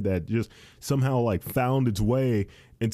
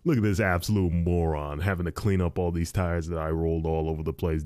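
lower, smug gloating; imagined smug voice; 5 semitones lower than usual. Retold or imitated. Imagined tire guy mocking him, lower smug gloat. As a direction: gloat like a hidden prankster. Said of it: "shit-eating grin on his face".

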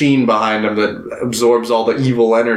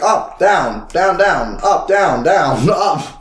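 lightly sing-song, raised pitch; mock soul-sorting; 5 semitones higher, much slower than usual. Retelling King Yama judging souls, mock bored-official routine. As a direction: rattle off verdicts with bouncing pitch.

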